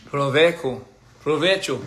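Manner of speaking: "provecho" with an Italian lilt; Italian-sounding Spanish; accidentally Italian. Shown as a demonstration. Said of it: "I made it sound Italian".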